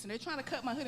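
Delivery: ordinary delivery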